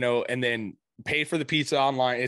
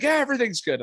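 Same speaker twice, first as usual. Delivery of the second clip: imitating son; 9 semitones higher, faster than usual. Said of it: "He's like".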